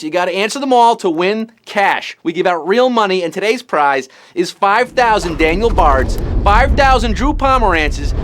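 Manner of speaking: hammed-up Boston quiz host; Boston accent. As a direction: lay on the Boston accent like a hype man. Host opens in exaggerated Boston accent.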